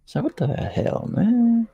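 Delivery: high, hammed-up Canadian accent; squeaky mock Canadian accent. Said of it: "Are you making fun of my Canadian accent, eh?".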